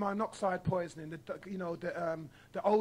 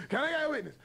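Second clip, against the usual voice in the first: mock preacher call; 4 semitones higher, faster than usual. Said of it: "I'm just doing what they do".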